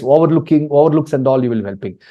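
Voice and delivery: ordinary delivery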